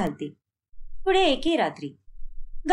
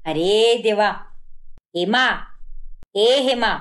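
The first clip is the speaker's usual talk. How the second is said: calling out; 3 semitones lower, slower than usual. Acted. Calling out to drunk Hema.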